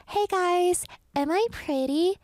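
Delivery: high, loud eerie copy of her voice; mimic monster. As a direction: lure hikers like the mimic. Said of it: "you would hear".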